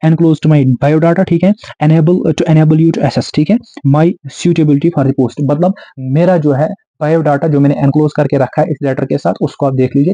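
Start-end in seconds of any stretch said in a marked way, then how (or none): 0.1-1.3 drawn-out model sentence; slow dictation. Shown as a demonstration. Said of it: "ये भी याद ही कर लेना है". 1.8-3.3 drawn-out model sentence; slow dictation. Shown as a demonstration. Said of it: "ये भी याद ही कर लेना है". 3.9-5.5 drawn-out model sentence; slow dictation. Shown as a demonstration. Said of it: "ये भी याद ही कर लेना है".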